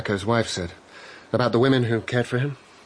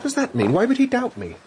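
higher and louder, stung by the doubt; alarmed protest; 12 semitones higher, 4 dB louder than usual. Acted. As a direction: push it up, hurt and defensive.

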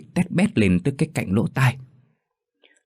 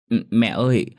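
put-on crying child; 3 semitones higher than usual. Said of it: "miệng mếu máo khóc".

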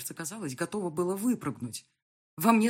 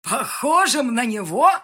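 loud scornful mockery; mocking laugh; 7 semitones higher, 13 dB louder, slower than usual. Yan scornfully mocking the heroine, loud. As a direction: sneer and laugh it off. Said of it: "вдруг засмеялся Соколовский".

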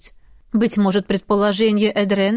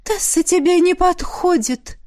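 put-on higher girl's voice, stress on тебе; declaring; 7 semitones higher than usual. A narrator's reading. Izzy tells Ash his wife is wrong for him, high and firm. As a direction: state it flatly as a verdict. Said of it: "заявила Изи".

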